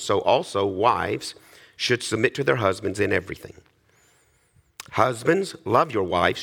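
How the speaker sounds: formal Bible reading voice; scripture reading. Acted. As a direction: read the passage solemnly to the congregation. Reads Scripture aloud to congregation.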